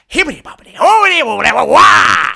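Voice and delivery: high, loud gibberish spell; wizard's nonsense incantation. Acted. Wizard casting at the invisible space, high shouted incantation. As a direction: shout out the magic words, building to a wail. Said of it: "and starts going".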